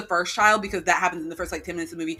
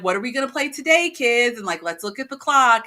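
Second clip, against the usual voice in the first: a hint of upbeat kids' host, pitched up; kids' show host; 3 semitones higher, 4 dB louder than usual. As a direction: address little kids in a lightly mimicked Barney way. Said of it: "talking to the kids in kind of the way that Barney would".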